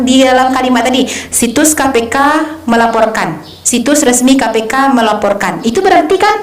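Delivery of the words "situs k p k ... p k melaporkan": "situs resmi K P K melaporkan" read evenly, no word stressed; falling, matter-of-fact "melaporkan"; news sentence, unstressed. Shown as a demonstration. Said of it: "nggak usah datar aja".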